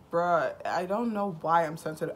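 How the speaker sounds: loud, exasperated bruh; exasperated outburst. Retold or imitated. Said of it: "I'm just like".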